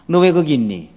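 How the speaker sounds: put-on a loud, blunt mom calling out the hiding child; dim-witted mom. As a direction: spoil the game like a clueless mother. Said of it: "머리 나쁜 엄마".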